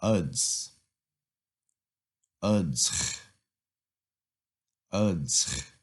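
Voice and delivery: Uds said on its own as a separate syllable; teacher drilling the syllable Uds. Shown as a demonstration. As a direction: isolate the syllable Uds for repetition. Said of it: "I'm gonna emphasize each syllable".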